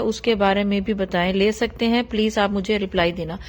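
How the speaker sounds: even, subdued read-aloud; reading a message aloud. Acted. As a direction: read the letter out steadily, little inflection. Reads a devotee's message aloud. (संदेश सपाट लहजे में पढ़ते हुए)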